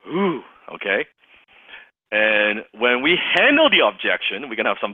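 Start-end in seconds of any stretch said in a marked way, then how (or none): 0.1-0.4 scary ooh. Shown as a demonstration.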